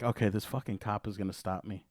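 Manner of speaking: low, quiet thought to himself; resigned inner voice. Retold or imitated. Driver to himself on spotting the cop, resigned and quiet. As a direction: say it under your breath, resigned.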